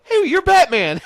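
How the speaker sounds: loud, high-pitched retold holler; high teasing shout; mock excited call-out. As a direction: crow it out, imitating a heckler. Retold celebrity calling out to star.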